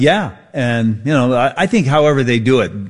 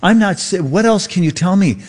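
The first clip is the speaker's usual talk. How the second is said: mock sympathetic AI; 5 semitones higher than usual. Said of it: "Quit imitating humans".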